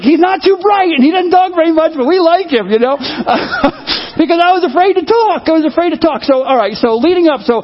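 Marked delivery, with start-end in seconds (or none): 0.0-2.7 church folks' verdict. Retold or imitated. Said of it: "they're like".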